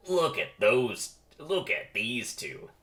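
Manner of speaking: slow, lightly voiced cocky jock; pollen jock. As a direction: draw it out like a swaggering athlete. Pollen jocks size up the lady bees.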